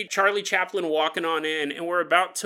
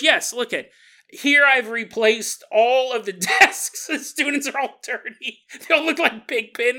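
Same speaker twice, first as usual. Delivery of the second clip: nerd voice; 4 semitones higher, 3 dB louder than usual. Acted. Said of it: "the nerd voice".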